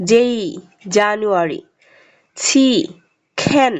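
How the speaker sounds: letter then word, aspirated k in খ্যান; example words. Shown as a demonstration. Teacher models example words for learners, careful pronunciation. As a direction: read জেই, জানুয়ারি, সি, খ্যান separately, carefully. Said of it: "উচ্চারণ সহকারে দেখিয়ে দিয়েছি".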